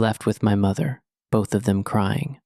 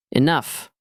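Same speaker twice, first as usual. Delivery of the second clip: shouted; 5 semitones higher than usual. Acted. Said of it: "I shouted".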